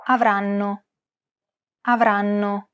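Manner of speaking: Avranno with every syllable the same length; syllable-timed Avranno; each beat of Avranno held equally; even syllables. Shown as a demonstration. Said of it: "Notice how each syllable is pronounced for roughly the same amount of time".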